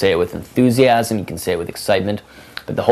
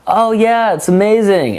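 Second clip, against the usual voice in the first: put-on excited girl; 12 semitones higher, 4 dB louder, slower than usual. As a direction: imitate her, much higher and louder.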